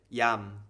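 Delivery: slow, drawn-out "yam"; blended syllable. Shown as a demonstration. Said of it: "put that together".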